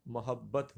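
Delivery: محبت as "ma-hab-bat", a in every syllable; correct pronunciation. Shown as a demonstration. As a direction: say محبت with a doubled b and final "bat". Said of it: "جو درست option ہے".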